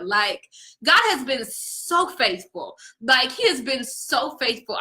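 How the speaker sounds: slow, fighting back tears on God has been so faithful; almost crying but holding it in. Real, not acted. Telling her viewers about God's faithfulness, holding back tears. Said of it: "I'm trying not to cry".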